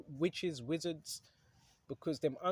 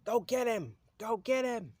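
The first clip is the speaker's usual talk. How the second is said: higher, louder mock order to his agents; Satan's command; 6 semitones higher, 6 dB louder than usual. Preacher voicing Satan sending agents after the awakened, loud and high. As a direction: bark it out like a devil dispatching minions.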